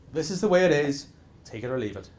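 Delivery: take-it-or-leave-it tone. Retold or imitated. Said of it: "He is not going to go".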